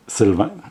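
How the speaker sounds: Sylvain with a French nasal "ain" ending; French pronunciation. Shown as a demonstration. Showing viewers the real name, French pronunciation of Sylvain. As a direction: say Sylvain as in French, no hard final n. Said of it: "don't know how to pronounce it".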